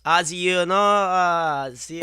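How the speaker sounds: a hesitant, halting German accent attempt; Jurgen Klinsmann German accent. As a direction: fumble into a slight German accent. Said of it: "put on your German accent".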